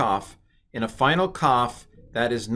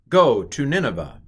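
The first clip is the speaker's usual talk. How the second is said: a hint of a loud prophetic command; dramatic command; 4 semitones higher, 5 dB louder than usual. Teacher briefly hamming up the biblical command. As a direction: proclaim it like a mild biblical order. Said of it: "I won't keep it up".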